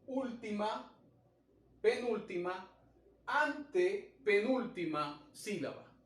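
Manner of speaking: "última, penúltima, antepenúltima" counted off one by one, each a separate step; counting the syllables. Shown as a demonstration. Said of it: "usted cuenta".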